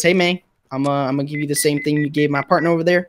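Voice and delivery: a hint of country twang in the accent; slight country accent. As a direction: slip into a slight cowboy accent. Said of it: "broke out into that slight accent again".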